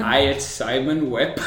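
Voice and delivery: a slow, hammed-up Korean accent, barely there; mock Korean accent. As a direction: put on a bad Korean accent for the intro. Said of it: "what was that one meant to be?".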